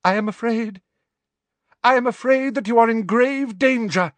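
high, loud doom-laden prophecy; dramatic. Acted. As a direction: announce the doom theatrically. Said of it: "finished dramatically".

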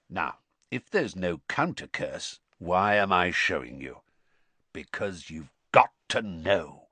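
lightly voiced stern teacher reading a lecture; emphatic, lightly acted old instructor; stern professor.

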